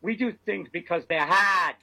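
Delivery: Boston accent, hard as hahd. Shown as a demonstration. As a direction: drop the r in hard, Boston style. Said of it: "Thank you for that Boston accent".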